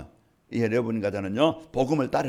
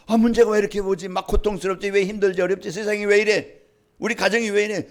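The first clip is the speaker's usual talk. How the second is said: higher-pitched, acted-out complaint; troubled questioning; 6 semitones higher than usual. Preacher voicing a struggling believer's questions, higher plaintive complaint. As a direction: voice a string of exasperated why-questions.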